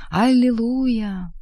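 high, drawn-out exultant call; narrated shrill cry, held long; piercing cry. A narrator's reading. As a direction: cry it out high, stretching the word. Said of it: "пронзительно вскричал".

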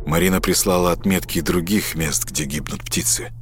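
тихо и сипло; просипеть через силу. Acted. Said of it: "просипел Марк". (сиплый шёпот)

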